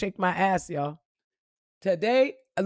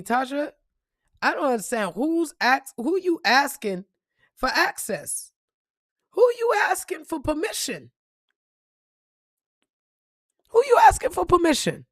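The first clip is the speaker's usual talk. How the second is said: a higher, rising voice of God, pressing; 7 semitones higher than usual. Retold or imitated. God reminding Tasha, rising and insistent. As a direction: let God's question climb. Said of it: "God reminding me".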